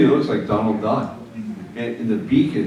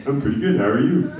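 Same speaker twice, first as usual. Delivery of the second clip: lower dummy voice; 2 semitones higher than usual. Retold or imitated. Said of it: "the dummy's voice is lower".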